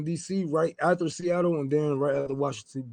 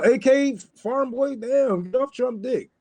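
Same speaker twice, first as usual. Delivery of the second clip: mocking callout; 7 semitones higher, slower than usual. Real, not acted. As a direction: drag the name out like a public scolding. Reading a viewer's comment out.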